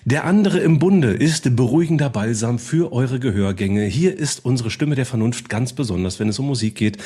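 building announcer intro; grand entrance announcement. Acted. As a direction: hype up each host like a gala emcee. Introducing co-hosts.

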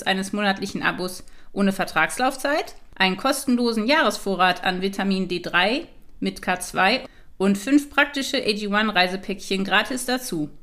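upbeat sponsor ad read; infomercial. Acted. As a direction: read it like a polished radio ad. Ad offer read.

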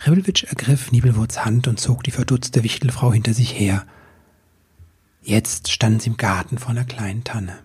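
hushed storytelling whisper; whispered narration. A narrator's reading. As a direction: breathe the words like a secret.

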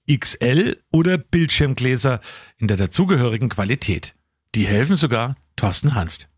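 measured, deliberate sponsor read; polished host-read advert. Acted. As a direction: read it out like a radio commercial.

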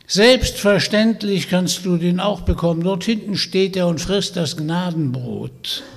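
put-on high, loud croaky old witch voice; croaking witch. Witch inviting Vanya home, croaking and sly. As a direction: play the sly old hag inviting him along.

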